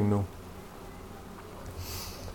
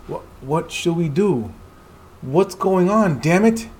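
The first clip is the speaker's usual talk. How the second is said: much higher, louder, slow alarm; panicked character; 7 semitones higher, 3 dB louder, slower than usual. Acted. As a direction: cry out desperately.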